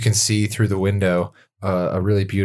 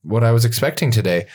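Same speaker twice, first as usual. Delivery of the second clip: flustered welcome; 3 semitones higher than usual. Acted. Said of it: "elf host flustered, inviting in".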